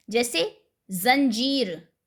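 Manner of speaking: जंजीर slowly with a z sound; nukta sounds. Shown as a demonstration. Teacher slowly showing the nukta in जंजीर. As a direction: say जंजीर as zanzeer, drawn out. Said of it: "फ के नीचे बिंदु लगा होता है".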